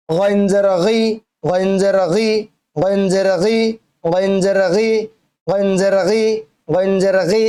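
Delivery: "গি" from the back of the tongue at the throat's edge; throaty ghain. Shown as a demonstration. Teacher drills ghain for learners, back-of-tongue throat sound. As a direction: voice the "গ" of "গইন" far back, where the throat ends. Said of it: "জিহ্বার গোড়ার একটু আগ থেকে".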